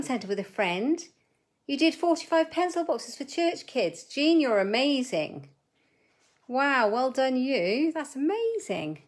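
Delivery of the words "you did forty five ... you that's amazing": much higher and louder, gushing; excited praise. Real, not acted. Crafter gushing to viewer Jean about her pencil boxes, excited. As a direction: gush over a friend's achievement.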